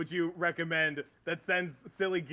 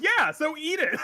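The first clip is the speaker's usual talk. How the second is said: higher, louder, cheerfully pushy; high mock insistence; 12 semitones higher, 8 dB louder than usual. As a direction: push him on, high and gleeful. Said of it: "And he's like".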